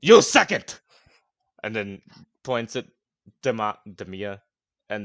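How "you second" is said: put-on loud, high drunken bark; drunken shout. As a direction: yell it like a rowdy drunk. Gronk shouts orders at players.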